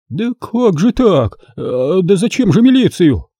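flustered father fussing; clucking fretfully. Acted. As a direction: cluck like a hen. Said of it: "закудахтал толстяк".

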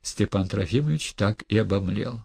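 plain reading voice

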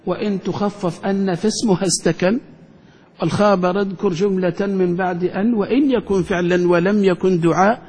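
measured recitation of grammar verse; recited verse. Acted. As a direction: chant the poem line by line. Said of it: "ابن مالك قال".

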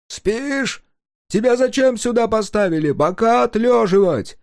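high, loud angry scolding; scolding shout. Acted. Guard scolded for sleeping on watch, angry shout. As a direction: rouse the lazy guard with a yell.

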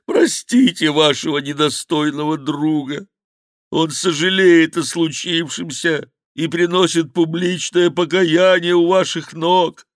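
high, loud, pleading; whining monk. Acted. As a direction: pile on the repentance. Monk repenting at Chicot's feet.

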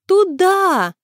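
high, loud urgent call. A narrator's reading. Tatyana pulls Sima to the shop, high and urgent. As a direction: drag her along with the word. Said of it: "схватила Симу за руку".

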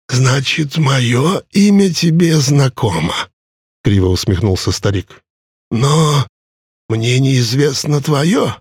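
a proud immortal savoring every word; ancient ferryman voice. Acted. Charon answers with wry smirk.

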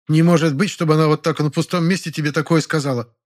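high-pitched sceptical protest; doubting woman. A narrator's reading. Neighbour doubts the rejection came from nowhere, sceptical. Older woman butts into the talk.

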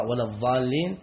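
"الضالين" with ظ in place of ض; substituted dad. Shown as a demonstration. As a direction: say "الضالين" as adh-dhaalleen, emphatic th as in this. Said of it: "لو أبدل وقرأ".

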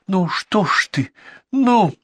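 high, rising impatient push; impatient urging. A narrator's reading. Girl urging the hesitant boy, high. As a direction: hurry him up.

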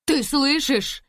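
loud, high call to the other room; joyful shout. A narrator's reading. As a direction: shout the good news. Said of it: "крикнула Лиза". (радостный крик)

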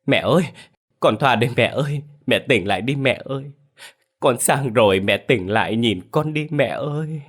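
acted grief-stricken calling; tearful plea. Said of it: "mếu máo khóc".

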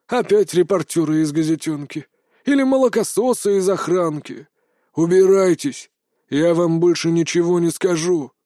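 loud, gruff outburst; old veteran driving away pests; grumpy old soldier. Acted. Old soldier chasing off visitors.

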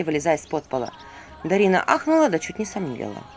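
ordinary delivery, nothing marked

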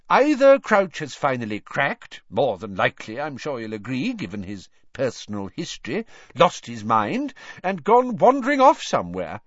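high, emphatic official voice; blustering minister. A narrator's reading. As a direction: theorise loudly, pitch leaping up.

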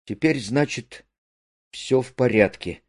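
quietly crushed, mildly played; crestfallen. A narrator's reading. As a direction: let the words drop, a touch downcast. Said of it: "Алёша упавшим голосом".

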